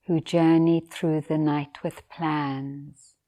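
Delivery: measured poetry reading with long pauses; poem reading. Acted. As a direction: read the poem gently, letting each line settle. Reads a poem aloud.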